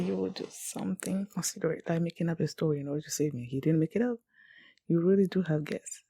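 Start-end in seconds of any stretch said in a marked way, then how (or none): none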